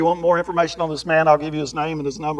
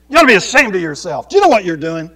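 louder preachy rebuke; mock scolding; 4 semitones higher, 9 dB louder, faster than usual. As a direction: lecture them like a scold. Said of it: "go to the drug dealers".

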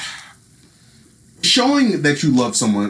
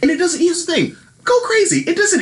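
excited. Acted. Hyped advice.

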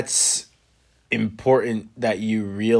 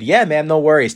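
breezy agreement; 6 semitones higher, 7 dB louder than usual. Retold or imitated. Acted cheerful reply to customer.

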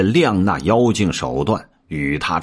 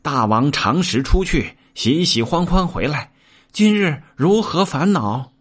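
much higher, squeaky minion voice; little demon minions; 7 semitones higher than usual. A narrator's reading. Minions asking their king why he is troubled, high-pitched. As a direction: pipe up like a small imp. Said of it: "许多看家的小妖".

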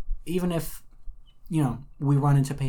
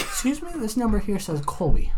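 high-pitched fake caller; 7 semitones higher than usual. Answering phone call from celebrity.

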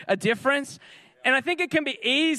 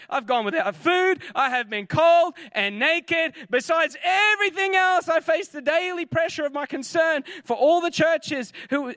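lightly voiced Paul listing his hardships, a bit higher and pressing on; Paul's boast; 4 semitones higher than usual. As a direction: read it as Paul piling up his trials, slightly raised and intense. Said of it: "And he's like".

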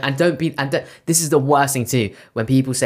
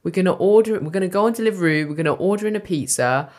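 raised-pitch mock itinerary; sarcastic rundown; 5 semitones higher than usual. Giving colleague a play-by-play of evening, sarcastic. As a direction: spell out each plan for a nosy listener.

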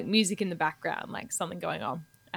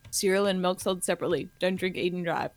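fast disclaimer; 2 semitones lower, 3 dB quieter than usual. Acted. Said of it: "disclaimer at the end".

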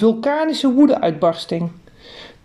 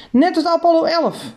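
wondering thought; 10 semitones higher than usual. Acted. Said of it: "dacht ik".

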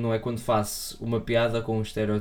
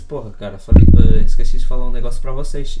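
put-on Brazilian accent; 15 dB louder than usual. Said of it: "ele disse".

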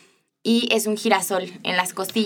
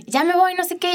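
imitating mom leaving; 10 semitones higher than usual. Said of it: "ella ya se iba".

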